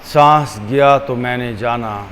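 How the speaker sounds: unhurried, measured, leaving room for each breath; guided meditation. Acted. Teacher guiding listeners to watch the breath, calm meditation voice.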